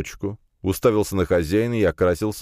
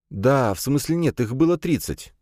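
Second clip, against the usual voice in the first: put-on much higher young man's voice; flustered correction; 8 semitones higher than usual. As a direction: stumble into a hurried self-correction. Flustered young man corrects himself. (сбивчиво, смущённо поправляясь)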